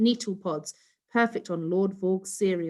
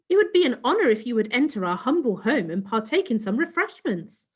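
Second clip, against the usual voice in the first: a lightly higher, put-on posh alien; 5 semitones higher, 4 dB louder, faster than usual. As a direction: put it on to impress the neighbour. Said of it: "in her posh alien voice".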